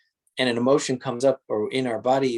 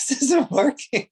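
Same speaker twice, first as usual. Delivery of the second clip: much higher, louder, whiny mock complaint; mock frustration; 12 semitones higher, 5 dB louder than usual. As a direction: play a fed-up meditator grumbling. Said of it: "It's like".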